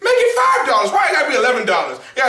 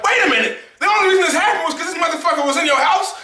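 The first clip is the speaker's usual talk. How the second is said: incredulous; 8 semitones higher, faster than usual. Retold or imitated. Retold reaction to the ending.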